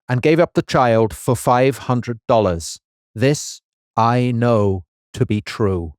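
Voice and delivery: put-on light American accent, weighing each phrase. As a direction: read it out in a measured American accent. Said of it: "in your American voice".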